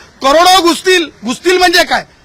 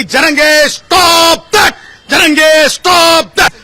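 shouted demand; much slower than usual. Real, not acted. Lawyer shouting a demand at Jarange.

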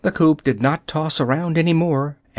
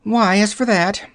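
high hen voice, musing; a hen pondering the question; thoughtful hen; 8 semitones higher than usual. Acted. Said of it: "answered the yellow hen thoughtfully".

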